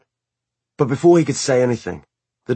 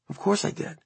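muffled little voice; 12 semitones higher, 6 dB quieter than usual. A narrator's reading. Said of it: "in a muffled little voice".

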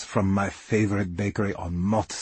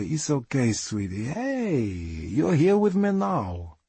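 soothing; 3 semitones higher than usual. A narrator's reading. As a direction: soothe someone who is crying. Comforts her while she is crying.

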